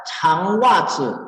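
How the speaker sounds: "Changwazi" slowly, with a puff after the ch; aspirated CH. Shown as a demonstration. Teacher showing the word spelled with C, slow aspirated "Changwazi". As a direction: draw out "Changwazi", ch strongly aspirated. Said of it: "dia harus pakai C".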